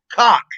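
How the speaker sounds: cock said for Coke, loud and falling; demonstrating how they say Coke; regional pronunciation. Shown as a demonstration. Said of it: "No, not pop".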